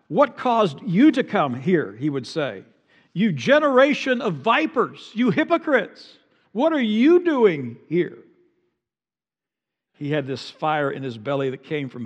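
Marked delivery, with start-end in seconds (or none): 0.1-8.2 loud, high hollered rebuke; hollering preacher. Retold or imitated. Preacher shouting John's rebuke at the Pharisees. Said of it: "He'd holler out loud".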